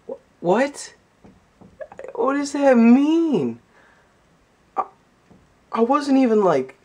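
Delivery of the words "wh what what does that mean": higher, slow baffled double take; confused. Retold or imitated. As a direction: reread it, totally lost. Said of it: "I was just really confused".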